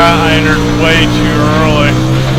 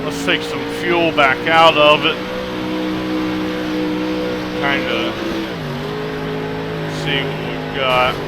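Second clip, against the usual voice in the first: talking while chewing gum; words around a wad of gum; 3 semitones lower, 6 dB quieter than usual. Real, not acted. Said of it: "I apologize for the gum chewing".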